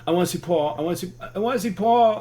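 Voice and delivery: put-on high, loud, whiny childlike plea; slow man-child voice. In the security line, a high whiny begging voice. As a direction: beg like a helpless overgrown child. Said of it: "did my best Edward Norton from The Score".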